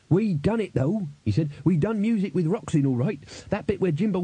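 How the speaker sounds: high-pitched, eager simple musician; proud battered rocker. Acted. Crash telling the band about their performance, high and proud. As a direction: crow about it in a high, pleased voice.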